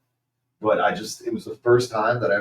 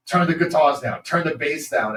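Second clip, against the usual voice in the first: raised, higher mock sound-guy demand; nagging order; 6 semitones higher, 5 dB louder than usual. Retelling the sound guy on stage, nagging. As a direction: imitate a bossy sound guy calling out.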